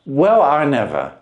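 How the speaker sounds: a plain man dumbfounded by the trick; Wilson voiced.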